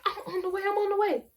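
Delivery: high, insistent mock outrage; imitating furious grandma. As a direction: act out the irate grandma repeating her threat. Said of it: "losing her mind on me on my phone".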